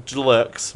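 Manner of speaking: "jerks" with an L slipped in after the J; artificial L. Shown as a demonstration. Host repeating a listener's made-up word, "jerks" said with an added L. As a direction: say "jerks" as "j'lerks". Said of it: "put that L artificially in there".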